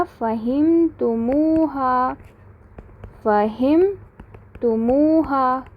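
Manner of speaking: फ़हिमतुमूहा drawn out, syllable by syllable; slow drilled answer. Shown as a demonstration. Teacher modelling the answer, फ़हिमतुमूहा slow and clear. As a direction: repeat फ़हिमतुमूहा slowly so students can follow. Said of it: "क्या बन जाएगा?".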